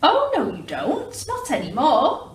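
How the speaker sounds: high, loud snatching declaration; declared. Acted. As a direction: grab the leaf with a loud no. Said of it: "declared the highway thief".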